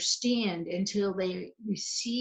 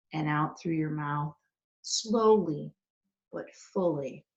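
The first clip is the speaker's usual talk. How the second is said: unhurried guide with long pauses between phrases; guided meditation. Real, not acted. Leads a breathing meditation.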